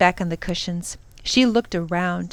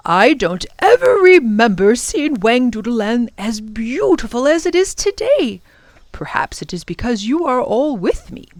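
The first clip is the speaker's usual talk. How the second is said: lilting professor, raised at first then softening; fond professor; 3 semitones higher, 4 dB louder than usual. Acted. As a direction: wonder aloud, then turn tender. Professor speaks fondly to children.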